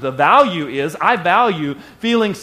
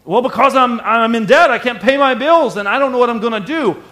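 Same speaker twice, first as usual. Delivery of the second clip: a higher, louder, pressed voice of someone in debt; stressed debtor; 4 semitones higher, 4 dB louder than usual. Retold or imitated. Preacher voicing a man in debt, higher and anxious. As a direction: blurt it like you're drowning in bills.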